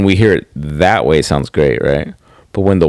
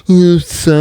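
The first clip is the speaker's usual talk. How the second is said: mock apology; 9 semitones higher, 3 dB louder than usual. Mimics men's habitual apology.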